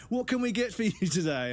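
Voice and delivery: high chirpy service voice; eager server. Retold or imitated. Mocking eager server asking for the order. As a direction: chirp it brightly. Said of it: "I'm just like".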